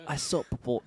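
"Isopropyl" as eye-SOP-ruh-pull; mimicked odd pronunciation. Trying out co-host's odd version, "Isopropyl" as eye-SOP-ruh-pull. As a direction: echo "Isopropyl" with the stress moved to SOP. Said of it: "Some people say isopropyl".

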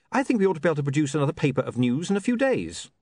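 lightly voiced, quick young man; a hint of an eager young man, fast; businesslike William.

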